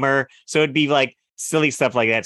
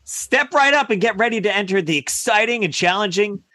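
voiceover announcer; 5 semitones higher than usual. Acted. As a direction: sell it like a TV commercial announcer. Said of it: "Somebody hire this man to do voiceover work".

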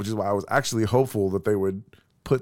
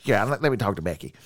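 put-on grumpy old man; 3 semitones lower than usual. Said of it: "the old man voice".

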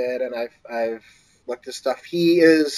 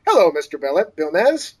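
a bit higher, lightly casual offhand read; breezy mock pitch; 5 semitones higher than usual. Writer reading his casual pitch to an agent, breezy and offhand. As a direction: toss it off like a cocky note. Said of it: "the summation of my query letter is as follows".

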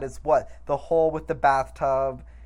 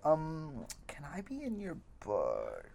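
timid ask; 11 dB quieter, slower than usual. Retold or imitated. Deputy timidly asks to be in book.

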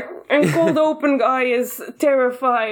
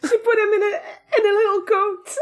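laughing; 9 semitones higher than usual. Real, not acted. Laughing delight at coat.

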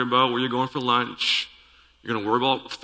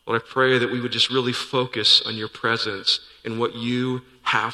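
opening prayer; 2 semitones lower than usual. Acted. Pastor praying for the church before the sermon, earnest and unhurried. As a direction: pray it sincerely and unhurried, easing down to a hushed amen. Pastor prays over congregation.

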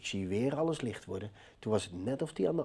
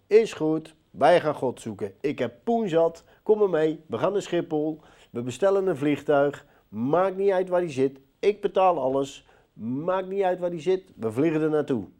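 excited; 5 semitones higher, 8 dB louder than usual. Retold or imitated. Boasting reply to preacher.

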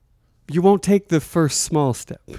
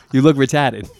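a light Boston accent, retarded as retahded. Shown as a demonstration. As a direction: say it like a Boston local. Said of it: "if I say it with a Boston accent".

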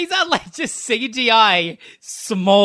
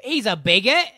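mock British accent; 4 semitones higher than usual. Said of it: "you said my British accent was bad".

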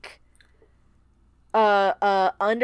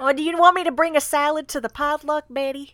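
higher, lilting mock Minnesotan accent; 4 semitones higher than usual. Shown as a demonstration. Asking Betty about the potluck, in a Minnesotan accent. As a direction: play a Minnesotan potluck guest. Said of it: "a little more Minnesotan".

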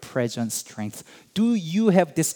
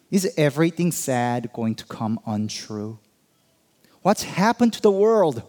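Sam's joyful wonder. Acted. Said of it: "This is what Sam Gamgee says".

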